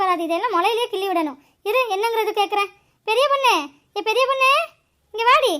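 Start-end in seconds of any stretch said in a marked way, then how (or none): 3.1-3.5 calling out. Acted. Grandmother calls daughter-in-law. 4.0-5.5 insistent call. Acted. Calls again, more insistent.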